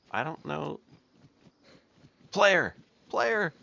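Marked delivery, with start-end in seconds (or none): 2.3-3.5 loud high shouts across the map; calling out. Real, not acted. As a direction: yell for a stranger's attention, much higher. Calling out to another player.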